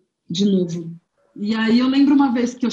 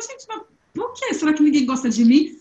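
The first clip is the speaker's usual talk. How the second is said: put-on little girl voice; 5 semitones higher than usual. Criança sozinha na sala. (voz de menininha perdida, aguda e baixinha)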